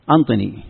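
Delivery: أنطني with a clear n where أعطني has ain; Tayy dialect word. Shown as a demonstration. Teacher showing how Tayy say give me, nun for ain. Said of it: "يبدل العين نونا".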